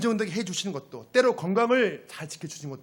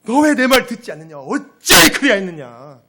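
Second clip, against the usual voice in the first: high, shouted parental reproach; loud lament; 4 semitones higher, 16 dB louder than usual. Acted. Parent finding the child disobeyed, loud lamenting shout. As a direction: wail at the child in exasperation. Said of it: "이렇게 탄식하는 거예요".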